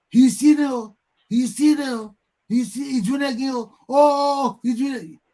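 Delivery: high, loud mocking cries; mock yelling. Same people crying about the thief, high loud mock yell. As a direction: wail it like a helpless crowd. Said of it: "the same people yelling".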